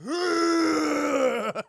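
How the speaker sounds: real laugh while describing; words squeezed out through laughter. Real, not acted. Streamer describing the swole rat, laughing.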